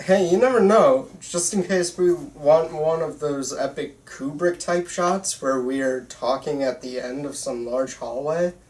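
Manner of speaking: ordinary talk, nothing marked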